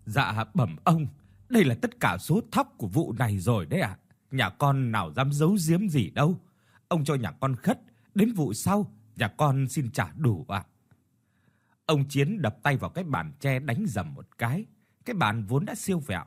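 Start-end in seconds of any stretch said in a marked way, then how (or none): 0.1-10.6 humble, begging plea to the landlord; old farmer begging the landlord for more time, pleading. Acted. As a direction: plead meekly, voice rising on the promise. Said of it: "Ông van xin".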